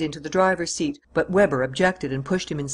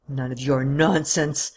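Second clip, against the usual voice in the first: growl; slower than usual. Acted. Weber threatens his prisoner with a slow growl. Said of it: "growled Weber".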